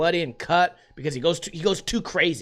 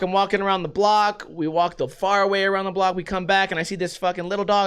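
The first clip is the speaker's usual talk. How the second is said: normal talking voice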